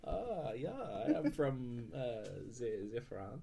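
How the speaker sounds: put-on slow, unsure comic French accent. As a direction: hesitantly fake a French accent. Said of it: "You had a French guy".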